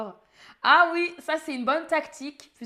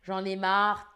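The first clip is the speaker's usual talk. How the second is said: weary sigh; 3 semitones lower than usual. Shown as a demonstration. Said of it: "ça veut dire que".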